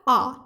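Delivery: 'आ' said alone as an open long aa; vowel demo. Shown as a demonstration. Teacher showing the aa sound of letter A in car. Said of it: "इस तरह से pronounce किया".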